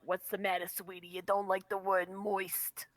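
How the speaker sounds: lightly voiced old chain smoker. Needling sweetie who dislikes a word, chain-smoker voice. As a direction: do a chain smoker, slowing on the final line. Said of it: "a Chainsmoker voice".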